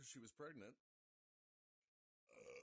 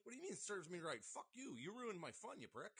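high, loud mock-indignant yelling; hammed-up outrage at a friend, laughing through it; mock angry yell at his friend for ruining his fun; 8 semitones higher, 4 dB louder than usual. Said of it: "I'm like".

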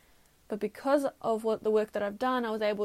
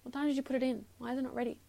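demanding answers, annoyed; frustrated; 3 semitones higher, faster than usual. Retold or imitated. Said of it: "So I started getting frustrated".

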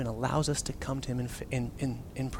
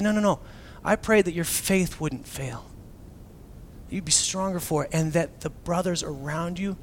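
calm reassurance. Retold or imitated. Jesus answering calmly.

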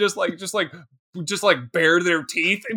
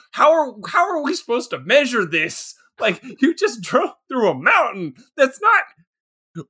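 mock exasperated scientist; 5 semitones higher than usual. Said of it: "they would have been like".

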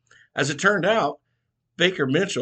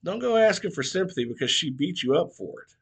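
lit into him; 3 semitones higher than usual. Acted. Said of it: "the old barber lit into him".

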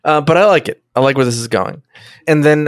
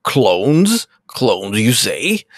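Worf; 2 semitones lower, much slower than usual. Acted. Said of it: "And then Worf is like".

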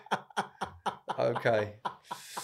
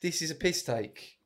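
high, slow mock Nigerian woman; put-on Nigerian woman, drawn-out and disappointed; 5 semitones higher, 4 dB louder, slower than usual. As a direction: grumble slowly as an improvised Nigerian woman. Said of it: "A woman from Nigeria".

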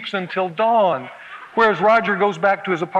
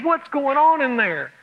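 worried wife; 7 semitones higher, slower than usual. Retold or imitated. Wife wringing hands outside cave.

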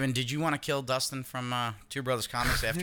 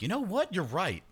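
mock convinced voice; 8 semitones higher than usual. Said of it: "That's like".

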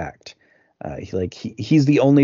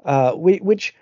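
mock phone shouting; 8 semitones higher, 4 dB louder than usual. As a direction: call down the phone as if to someone hard of hearing. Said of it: "she really shouts on the phone".

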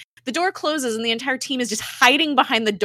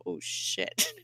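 hushed, voiceless mock shock; low-volume awed reaction, imitated; retold stunned whisper; 12 semitones lower, 8 dB quieter than usual. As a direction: whisper it like an onlooker aghast. Everybody stunned by the killing.

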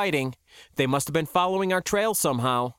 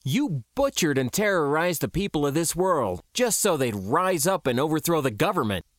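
higher-pitched righteous anger; outraged confrontation, pitch lifted; indignant accusation; 3 semitones higher than usual. Acted. Accuses a man of atrocities.

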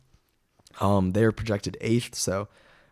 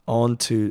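coughing. Real, not acted. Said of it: "sorry if you guys hear me coughing".

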